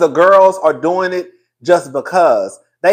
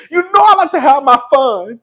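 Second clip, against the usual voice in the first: a singer's voice; 5 semitones higher than usual. Retold or imitated. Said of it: "Ain't that what she said?".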